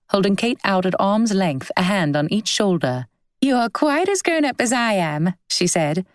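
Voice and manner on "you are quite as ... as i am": put-on higher, giggly girl's voice, teasing; a bubbly young woman, teasing and overjoyed; delighted young woman. A narrator's reading. Clara teasing her childhood friend, higher and bubbly.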